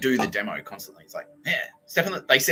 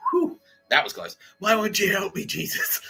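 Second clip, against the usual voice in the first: whiny mock plea; 9 semitones higher than usual. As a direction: beg Jesus in a mocking whine.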